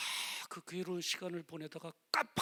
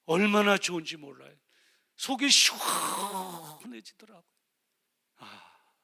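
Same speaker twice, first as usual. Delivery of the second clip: normal talking voice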